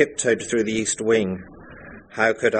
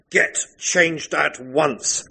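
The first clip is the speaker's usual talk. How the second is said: dark and queer; 6 semitones higher, much slower than usual. Acted. Maxime sees his wife in Rebecca's dress, slow menace. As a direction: order it coldly and slowly. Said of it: "Maxime said darkly and queerly".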